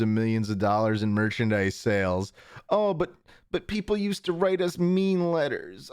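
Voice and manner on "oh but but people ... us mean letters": high whiny parody of the creators; mock whine. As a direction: pout it out like a spoiled victim. Mocking Barney creators' complaint.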